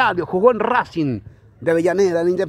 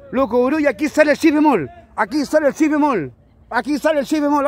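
raised pitch, ringing; high note warm-up; 6 semitones higher than usual. Real, not acted. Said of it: "La garganta ya está caliente".

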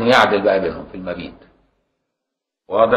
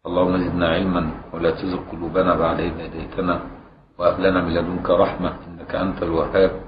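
measured, formal Arabic invocation; opening prayer; 2 semitones lower than usual. Real, not acted. Teacher opens the class with praise and supplication, prayerful recitation. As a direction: recite a habitual supplication in an even, running cadence.

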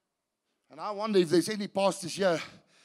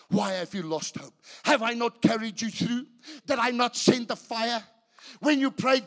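God rebuking, then pleading louder; 7 semitones higher, 7 dB louder than usual. Acted. God asking Elijah why he lost faith, swelling voice. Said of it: "there came a voice unto him saying".

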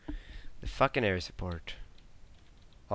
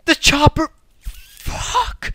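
high, loud shout of alarm; 10 dB louder, much slower than usual. Real, not acted. Gamer shouting as the enemy chopper appears. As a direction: call out the threat.

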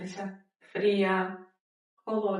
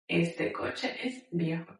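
soft repeat; 3 semitones lower, 6 dB quieter than usual. Shown as a demonstration. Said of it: "teacher repeats model phrase".

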